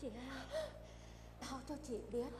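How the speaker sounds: stunned wife weeping to her sister; quiet weeping. Acted. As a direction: barely get it out through tears.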